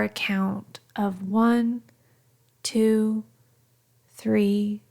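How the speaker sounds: calm, measured meditation voice with long pauses; guided meditation. Acted. Meditation guide settling listeners after an argument, calm and soothing. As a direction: guide them gently through each breath, unhurried.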